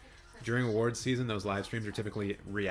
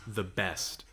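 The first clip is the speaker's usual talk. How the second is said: raspy voice. Real, not acted. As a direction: let the tired rasp show. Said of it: "bit deeper and a bit more raspy".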